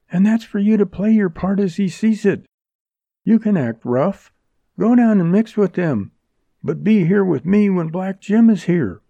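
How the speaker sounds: high, loud urgent woman. A narrator's reading. Jerry urging, voiced female.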